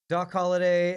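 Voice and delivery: usual speaking voice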